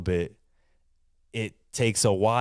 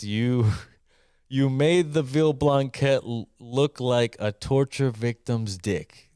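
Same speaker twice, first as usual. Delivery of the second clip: quoting through laughter; 2 semitones higher than usual. Retold or imitated. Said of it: "Costall put it to me like this".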